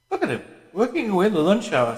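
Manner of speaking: a hint of a chummy, overgrown schoolboy; teasing a colleague in a lightly hearty voice; hearty Parsons. Parsons nudging Winston, hearty.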